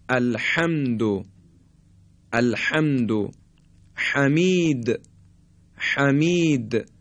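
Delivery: الحمد، حمید with a husky throat-squeezed ح; constricted ح. Shown as a demonstration. (الحمد و حمید با بحه در ح)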